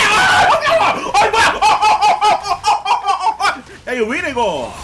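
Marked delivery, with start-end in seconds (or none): 0.1-0.7 loud high yelp of alarm. Real, not acted. 돌발 상황에 비명. 1.1-3.6 loud flustered stammering yelps; 당황한 외침. Real, not acted.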